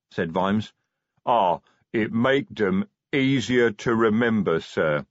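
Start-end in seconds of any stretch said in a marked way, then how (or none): 1.2-5.0 slow, lightly voiced sage troll; a touch of troll wisdom; troll sergeant explaining drug names, sagely. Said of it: "nodding sagely".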